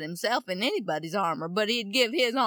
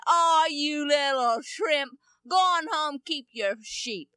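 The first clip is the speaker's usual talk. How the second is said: scornful big brothers; 5 semitones higher, 4 dB louder than usual. Acted. Brothers mock younger David.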